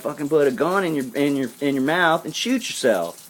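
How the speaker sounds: high, heated replay of an outburst; angry retort, short of a full yell; retold yelling. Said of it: "I was yelling at him today".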